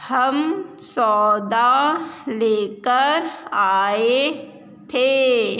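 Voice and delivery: slow, chanted reading with repeats; sing-song reading. Shown as a demonstration. Teacher chanting a reading line for pupils. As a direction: chant it slowly so children repeat. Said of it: "reading drill with the class".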